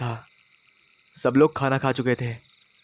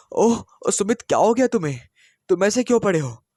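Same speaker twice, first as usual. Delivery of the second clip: higher, falsely worried concern; feigned innocence; 7 semitones higher than usual. A narrator's reading. Wife pretending innocence over her husband she choked, feigned alarm. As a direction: play dumb, all sweet alarm. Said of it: "अनजान बनकर आनंदी ने पूछा".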